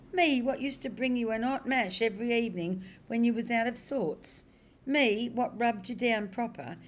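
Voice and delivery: high, loud, wounded protest; indignant disbelief. Acted. Cabbie protesting to his forgetful horse, loud and high. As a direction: cry out as if betrayed by an old friend.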